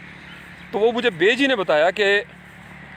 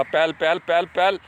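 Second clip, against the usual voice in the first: put-on child practising ox calls. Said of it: "میں وہ سبق پکاتا رہتا تھا".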